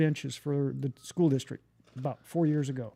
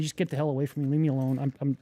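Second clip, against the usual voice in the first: fed up; 4 dB louder than usual. Retold or imitated. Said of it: "finally got tired of fighting".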